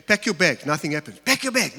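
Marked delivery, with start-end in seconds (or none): 1.2-1.8 raised voice. Shown as a demonstration. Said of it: "Here's the problem with raising your voice".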